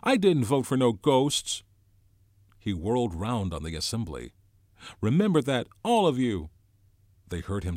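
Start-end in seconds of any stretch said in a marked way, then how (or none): 0.0-1.6 loud, high, shrill outburst. A narrator's reading. Piggy protests to the boys about ghosts, shrill. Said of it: "Piggy's voice shrilled". 5.0-6.5 high, loud shrill warning; shrill it out at the whole group. A narrator's reading. Piggy whirls round on the assembly, shrill. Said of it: "Piggy's voice shrilled".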